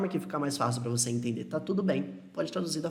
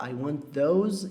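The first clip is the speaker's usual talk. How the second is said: slow model phrase; much slower than usual. Shown as a demonstration.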